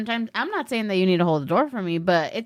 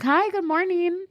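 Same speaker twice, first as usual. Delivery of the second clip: mock cheery greeting, higher and slow; all happy; 10 semitones higher than usual. Friend greets a rude bagel server, imitated cheery. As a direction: chirp it sunny and bright. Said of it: "he's all happy".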